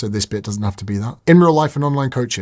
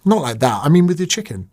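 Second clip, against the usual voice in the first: innuendo joke, correcting himself with a wink; cheeky innuendo; mock correction; 3 semitones higher than usual. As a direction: play it as a cheeky self-correction. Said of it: "there's some fun here".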